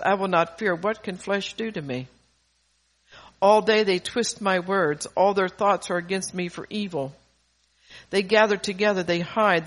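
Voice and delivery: emphatic, declaimed psalm reading; measured phrases driven from the front; scripture reading. Acted. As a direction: read David's plea out to a congregation. Reads the psalm aloud.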